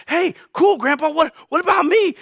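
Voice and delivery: put-on high, eager child's interjection; piping up. Young Moses butts in on grandfather's speech, piping up high. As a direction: pipe up wanting to be included. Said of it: "Moses probably piped up".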